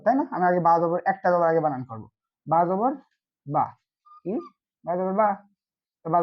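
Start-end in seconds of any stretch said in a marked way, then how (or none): 2.5-3.7 "বা জবর ... বা" in separate pieces, pause before the last "বা"; broken-down spelling. Shown as a demonstration. Teacher breaking down a spelling for learners, "বা জবর ... বা" piece by piece. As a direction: spell out "বা জবর", pause, then give "বা" on its own. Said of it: "ভেঙে বোঝাচ্ছি".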